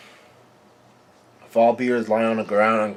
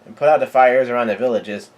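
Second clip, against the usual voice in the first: raised, slightly louder imitated command; retold yell; 2 semitones higher, 4 dB louder than usual. Giants yelling orders about Lillian, half-hearted yell. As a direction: call out an order without full force. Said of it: "giants are yelling out".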